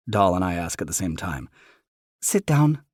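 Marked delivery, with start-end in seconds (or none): 2.2-2.8 mother voice. Acted.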